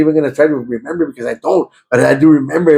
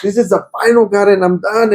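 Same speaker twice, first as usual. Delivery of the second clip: crying out; 5 semitones higher than usual. Retold or imitated. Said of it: "man, I'm crying".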